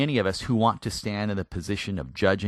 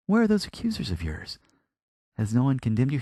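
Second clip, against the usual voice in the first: respectful. Retold or imitated. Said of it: "He's speaking to her with respect".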